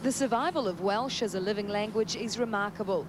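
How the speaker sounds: scripted reporter voice, lifted key words; measured, lilting news-package narration; TV feature report read. Acted. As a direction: present it as a light travel feature.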